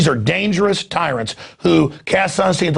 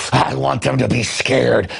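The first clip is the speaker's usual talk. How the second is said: mocking official; 4 semitones lower, slower than usual. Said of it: "just savoring that".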